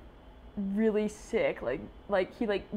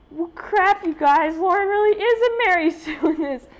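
excited rant; 10 semitones higher, 8 dB louder than usual. Real, not acted. Excited rant about character.

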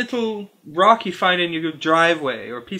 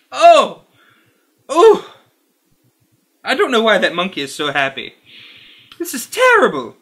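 disgusted cry; 4 dB louder than usual. Real, not acted. More disgust at the licorice.

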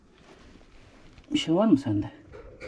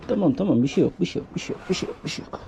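soothing hush; 4 dB quieter than usual. Real, not acted.

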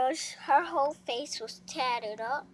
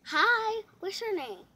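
confident greeting; 8 semitones higher, 4 dB louder than usual. Shown as a demonstration. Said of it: "Say it like".

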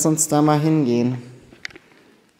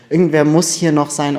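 loud insisting; 9 dB louder than usual. Real, not acted. Insisting someone is there.

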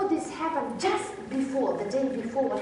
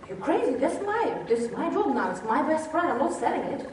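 mock indignation, lightly raised pitch; indignant refusal; 3 semitones higher than usual. New dog owner to former owner, indignant. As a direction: play an owner offended by the offer.

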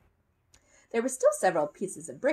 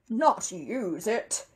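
very slow, disbelieving echo; incredulous repeat; 3 semitones higher, much slower than usual. A narrator's reading. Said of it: "he repeated".

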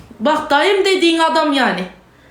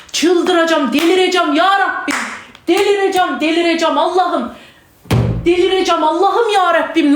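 frantic, repeated cries of despair; distraught outburst. Real, not acted. Mother crying out to God over her child, distraught. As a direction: wail it out, close to losing control.

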